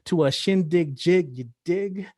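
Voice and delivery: rhythmic spoken-word delivery, pausing between images; poetry recital. Acted. Poet performing for listeners, spoken-word recital. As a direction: perform it as a poem, riding the wordplay.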